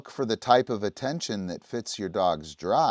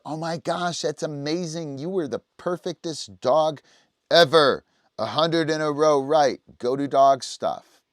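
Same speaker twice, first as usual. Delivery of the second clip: high, loud gushing praise for the dog; hammed-up happy trainer praising her dog; excited praise; 7 semitones higher, 9 dB louder than usual. Shown as a demonstration. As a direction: throw a big party of praise. Praising low drive dog.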